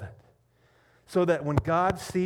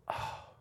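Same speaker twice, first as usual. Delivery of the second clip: soft, acted groan of pain; hushed mock wince; imitated pained groan; 8 dB quieter than usual. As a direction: let out a low-key "oh" as if stung. Dad reacting to the bee sting.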